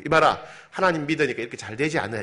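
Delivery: quick, bragging neighbour; boastful quote. Retold or imitated. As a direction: show off, quick and pleased. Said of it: "자랑할 수가 있는데". (빠르게 자랑하는 이웃 흉내)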